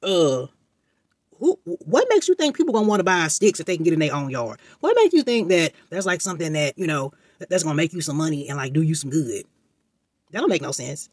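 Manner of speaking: scoffing mother. Retold or imitated. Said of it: "your mama say".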